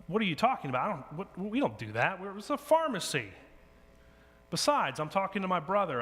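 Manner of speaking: put-on an impatient pharmacist waving away a child; exasperated pharmacist. Pharmacist brushes off little girl.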